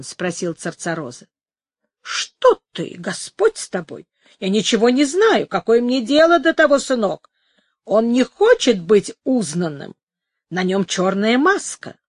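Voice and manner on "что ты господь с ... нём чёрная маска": put-on old woman voice. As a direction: protest like a sly old woman.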